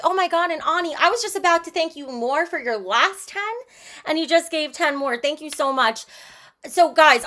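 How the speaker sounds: ordinary delivery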